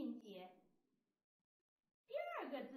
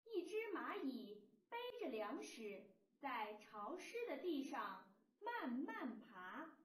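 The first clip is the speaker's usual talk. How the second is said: model reading aloud. Shown as a demonstration. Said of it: "让我们一起读一读".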